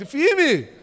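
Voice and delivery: loud, high one-word exhortation; emphatic shout. Real, not acted. Preacher urges men not to waver, emphatic shout. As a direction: punch it out as a command.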